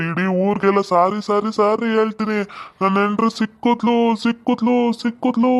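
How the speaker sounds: joyful crying out. Acted. Husband announcing he has found his wife, joyful crying out. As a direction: proclaim it to the whole village, overjoyed. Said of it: "ಕೂಗ್ತಿರೋದ್ ನೋಡಿ".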